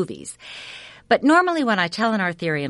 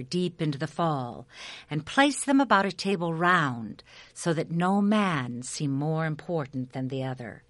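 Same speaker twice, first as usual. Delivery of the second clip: epic fantasy narrator. A narrator's reading. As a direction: spin it like an old legend by the fire. Continues telling the legend.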